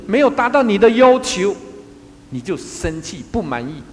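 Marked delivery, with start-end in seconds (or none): 0.1-1.6 排比强调. Real, not acted. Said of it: "排比强调".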